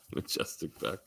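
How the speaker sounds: breathy whisper of the name, rising. Real, not acted. Streamer whispers the viewer's name to himself, rising. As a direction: hush it out like a private aside.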